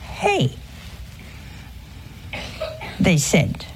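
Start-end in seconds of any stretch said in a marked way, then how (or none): 0.0-0.6 grumbling worker's high "Hey"; mocking "Hey". Workers complaining to the owner, high mock "Hey". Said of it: "Now they're beginning to think".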